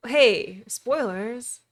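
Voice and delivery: normal talking voice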